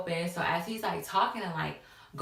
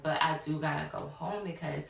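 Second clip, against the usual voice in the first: low, measured excuse; retold smooth-talking, gently placating; finessing; 3 semitones lower than usual. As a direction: let them down easy, keeping it calm. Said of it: "I'm finessing".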